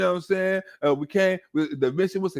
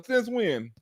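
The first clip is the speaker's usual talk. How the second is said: deadpan quiet; 6 dB quieter than usual. Real, not acted. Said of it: "repeated punchline".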